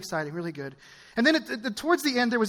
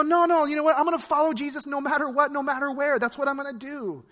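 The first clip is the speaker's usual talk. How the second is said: higher-pitched, emphatic declaration; determined resolve; 4 semitones higher than usual. Acted. Acting out believers choosing to follow Jesus, determined. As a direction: declare it as a settled decision, falling at the end.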